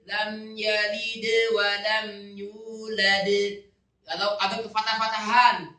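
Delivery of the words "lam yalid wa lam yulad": lam yalid, wa lam yulad recited slowly, the d ends bounced; slow recitation. Shown as a demonstration. Teacher reciting slowly for students to hear the endings. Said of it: "tidak kasroh-kasrohan".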